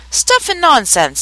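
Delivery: high, drawn-out indignant exclamation; loud scorn. A narrator's reading. Alice objects loudly to the queen, indignant. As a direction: stretch it out slowly and pitch it up in protest. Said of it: "said Alice loudly".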